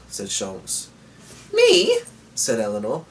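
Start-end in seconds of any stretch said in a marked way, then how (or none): 1.5-2.0 leaps very high in disbelief; a squeak of amazement; astonished. A narrator's reading. Daughter amazed her father wants her along, disbelieving squeak. Eleanor astonished at being chosen.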